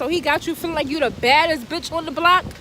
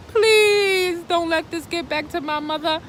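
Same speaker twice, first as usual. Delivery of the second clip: tearful plea; 2 semitones higher than usual. Retold or imitated. Praying the rumor won't reach her mother, crying. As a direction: beg through the tears. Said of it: "All I was thinking was".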